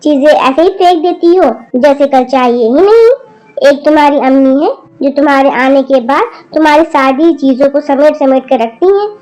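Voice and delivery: scolding grandmother. Acted. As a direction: tell off the rude granddaughter. Grandmother's long angry scolding. (पोती को गुस्से में डांटती दादी)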